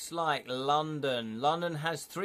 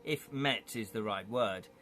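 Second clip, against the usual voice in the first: measured scene-setting narration; game master narrating the opening; story narration; 3 dB louder than usual. A narrator's reading. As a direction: paint the scene for the players.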